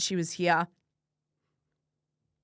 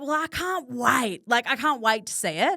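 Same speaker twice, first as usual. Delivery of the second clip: lightly voiced mum; 5 semitones higher than usual. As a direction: gently voice mum, happy for her child. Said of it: "She was like".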